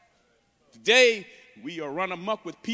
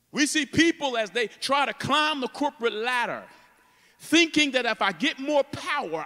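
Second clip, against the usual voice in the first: higher, driven preacher's delivery; impassioned preaching; 7 semitones higher, 5 dB louder than usual. Real, not acted. Preacher warning about worldly ambition, impassioned. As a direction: press each phrase out to the congregation.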